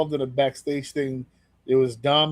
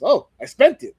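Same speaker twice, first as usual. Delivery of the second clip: Danhausen voice; 7 semitones higher, 6 dB louder than usual. Retold or imitated. Danhausen voiced in retold segment.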